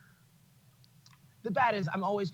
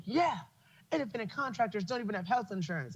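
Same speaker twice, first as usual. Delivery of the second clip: mock activist; 6 semitones higher than usual. Mocking well-meaning activists.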